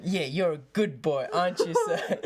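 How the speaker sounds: put-on laughing, teasing good boy; laughing mock praise; mock cooing guard. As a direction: coo it like praising a pet.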